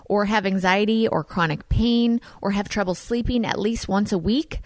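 smooth, scripted sponsor read; podcast ad read. Acted. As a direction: read the sponsor copy in a friendly, measured way. Reads a sponsor ad.

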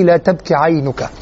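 slow, lingering tender quote; affectionate. Retold or imitated. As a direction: linger fondly over each word. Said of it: "هل تشعر بهذا الود في الكلام". (بودّ وتمهّل)

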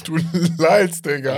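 cracking up while firing back; laughing retort. Real, not acted. Firing back at the teasing friend, laughing loudly.

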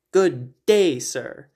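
loud clipped Wonka dismissal; Wonka quote. Retold or imitated. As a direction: bark it like Willy Wonka. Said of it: "one final Wonka quote".

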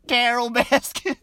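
imitating Joe Exotic calling her name; a light Southern twang on the name; Joe's Southern accent. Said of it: "whenever he says".

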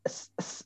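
unvoiced s, tongue not pressed; soft s. Shown as a demonstration. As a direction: hiss s lightly. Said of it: "tidak perlu ditekan".

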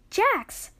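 alarmed yell for someone missing. A narrator's reading. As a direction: call out urgently, stretching the second name. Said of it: "she yelled".

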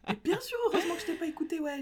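fast, high and laughing; sarcastic laughing retort. Retold or imitated. Answering the friend, laughing sarcastic retort. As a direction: snap it back with a laugh, fast. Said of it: "J'ai dit".

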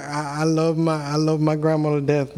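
usual speaking voice

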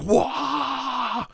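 high mock battle yell "Wah!"; a goofy, high-pitched orc roar; orc war cry. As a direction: bellow it like a charging orc. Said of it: "we would just start having wahs".

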